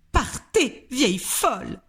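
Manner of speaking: high, loud shout to get out. A narrator's reading. Mrs Jenkins shouting at grandmother to leave, high and loud. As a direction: throw her out with your voice. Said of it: "cria madame Jenkins".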